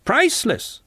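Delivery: high-pitched admiring exclamation; high voice of a pretentious admirer; gushing Clevers. A narrator's reading. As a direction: coo it high, like an art snob. Clevers' mock-refined praise of the song.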